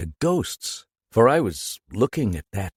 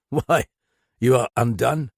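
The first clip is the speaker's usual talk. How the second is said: a laugh then a gloating, louder line; mocking triumph; laughing taunt; 3 semitones higher, 5 dB louder than usual. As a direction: savour his victory with a chuckle. Detective taunting the club owner.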